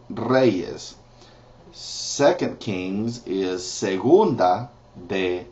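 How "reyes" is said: Reyes said with a trilled R; teacher repeats the word slowly; rolled R. Shown as a demonstration. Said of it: "See the R?".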